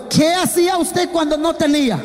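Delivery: preacher leading the church to repeat, shouted; call and response. Shown as a demonstration. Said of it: "Digan todos".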